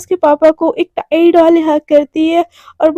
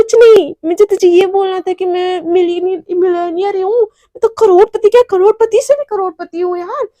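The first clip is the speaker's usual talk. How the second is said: flustered cover-up; 3 semitones higher than usual. Acted. Covering up secret under a glare.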